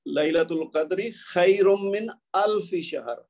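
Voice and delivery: slow recited Arabic verse; Quranic recitation. Shown as a demonstration. Teacher quoting the Quran verse to students, recited slowly. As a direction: recite لیلۃ القدر خیر من الف شہر slowly and carefully. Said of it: "قرآن پاک میں ہے".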